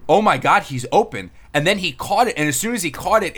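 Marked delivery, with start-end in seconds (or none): 0.1-1.3 1 retold exclamation. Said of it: "It was like".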